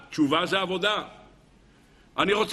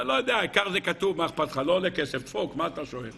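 careless brush-off; 2 semitones lower, faster than usual. Acted. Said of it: "שלא תגיד סתם".

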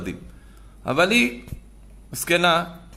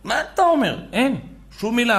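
mock fawning; 9 semitones higher than usual. Mocking mother-in-law's sweet hosting.

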